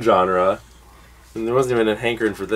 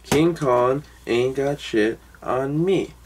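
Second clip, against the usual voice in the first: movie-line quote; 2 semitones higher, much slower than usual. Acted. Quotes movie's supposed final line.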